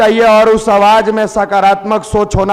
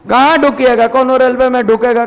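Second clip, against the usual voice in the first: pressing repeat; 4 semitones higher than usual. Shown as a demonstration. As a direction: push the question harder the second time.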